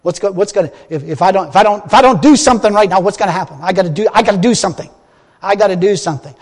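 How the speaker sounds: frantic, rushing bursts of mock panic; panicked mind. Preacher voicing his fearful mind rushing to act, mock panicked. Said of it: "It's going".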